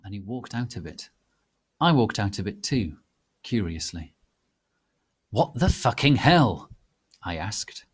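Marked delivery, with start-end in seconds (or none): 5.3-6.7 angry. Acted.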